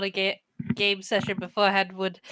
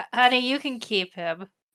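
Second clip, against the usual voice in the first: plain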